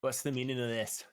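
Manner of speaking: loud, stern demand; a hint of a stern commander; stern woman knight silencing a crowd. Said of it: "and she says".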